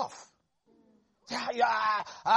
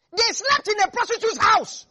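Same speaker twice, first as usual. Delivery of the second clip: higher and louder, hammering the scandal home; loud emphatic declaration; 10 semitones higher, 6 dB louder than usual. Shown as a demonstration. Preacher stressing where the spies slept, loud emphatic. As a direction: proclaim it to the whole church. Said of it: "repeated for emphasis".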